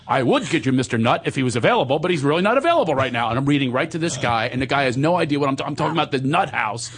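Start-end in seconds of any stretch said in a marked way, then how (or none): 0.1-3.3 rattled-off receptionist lines; hurried recitation. Retold or imitated. Flustered actor reading his lines to an angry caller, hurried recitation. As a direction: race through the polite excuse.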